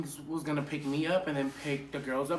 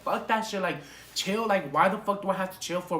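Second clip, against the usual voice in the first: higher, mildly heated protest; retold indignation; 4 semitones higher, 4 dB louder than usual. Passenger answering a friend who said chill, retold indignation. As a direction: argue back with a touch of anger.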